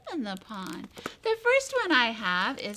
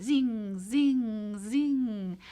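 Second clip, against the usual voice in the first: dragonfly wing zings; much slower than usual. Shown as a demonstration. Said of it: "you're a dragonfly".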